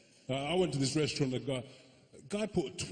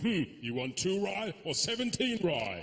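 mock Chinese accent, higher; higher Chinese-accented waiter, baffled; confused waiter; 4 semitones higher than usual. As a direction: puzzle over the order in a Chinese accent. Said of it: "get so confused".

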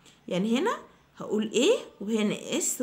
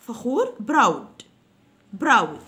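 proud said loudly and firmly; loud drill; 6 dB louder, much slower than usual. Shown as a demonstration. Teacher calling out the word for students to repeat. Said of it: "review drill".

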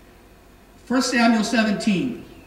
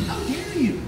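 higher, scolding rant at his little brother; angry older brother; 5 semitones higher than usual. Retold or imitated. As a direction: tell him off like a fed-up big brother. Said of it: "his older brother says, like".

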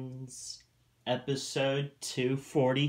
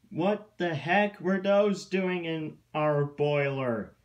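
higher-pitched, indignant question; indignant disbelief; 5 semitones higher, 4 dB louder than usual. A narrator's reading. Mac finds hot dogs in the boiler, indignant. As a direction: demand an explanation, baffled and put out.

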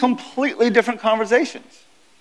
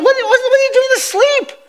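mock angry fishermen. Disciples yelling at sleeping Jesus to grab a bucket, mock outrage. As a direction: play the soaked fisherman yelling at him.

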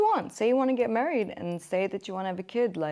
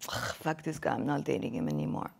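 mock bitchy; 9 semitones lower, 7 dB quieter than usual. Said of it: "I would be so bitchy about it".

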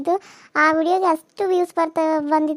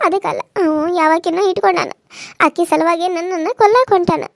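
distressed accusation; 4 dB louder than usual. Acted. Wife accuses husband of murder plot.

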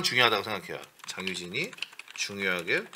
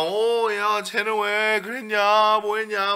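fretting mother; 8 semitones higher, slower than usual. Retold or imitated. Mother fretting over the students.

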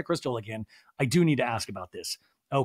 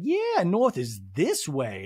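slow Tilly parody; slower than usual. Retold or imitated. Jennifer voiced again.

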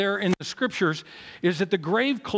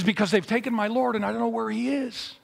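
higher, pleading, lightly acted distress; mock tearful; 5 semitones higher than usual. Weeping woman answers the angel, mildly distressed. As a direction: act mildly upset, pitch raised, no real sobs. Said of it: "she's crying, she's weeping".

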